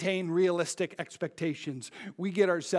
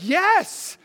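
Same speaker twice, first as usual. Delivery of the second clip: much higher, louder eager reply; eager yes; 12 semitones higher, 10 dB louder than usual. Retold or imitated. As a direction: blurt it out earnestly. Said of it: "he's like".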